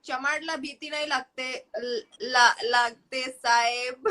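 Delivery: put-on fast, giggly Marathi accent. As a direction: stumble through it in Marathi accent. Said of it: "can you do a Marathi accent?".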